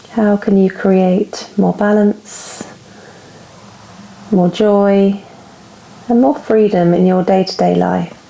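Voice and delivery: calm, unhurried meditation guide; guided reflection. Real, not acted. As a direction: pose each thought gently, leaving space after it. Leads inward reflection.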